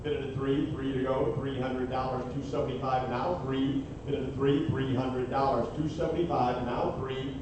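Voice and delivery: rapid rhythmic auctioneer chant; frantic trading floor shouting. Acted. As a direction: rattle off the bids nonstop. Fast auction bid calling.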